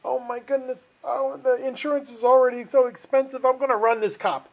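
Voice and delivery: acting out a joke character's alarm; panicked driver. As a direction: voice a rattled motorist making a rash decision. Voices fleeing driver in joke.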